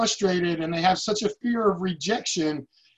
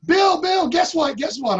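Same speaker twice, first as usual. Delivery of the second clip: rushing, eager call, pitched higher and louder; bursting to tell the boss, higher and louder; excited news; 7 semitones higher, 4 dB louder than usual. Retold or imitated. Team member calling his boss with news, excitedly higher and louder. Michael calls with big news.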